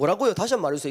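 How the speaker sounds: arrogant, cocky, rude, impolite tone. Showing an impolite way to ask for repetition, in a rude, arrogant tone. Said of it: "건방지게".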